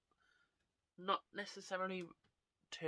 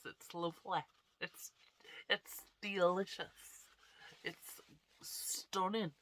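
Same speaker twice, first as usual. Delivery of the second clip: sarcastic; 2 semitones higher, slower than usual. Real, not acted. Sarcastic about blocked nose.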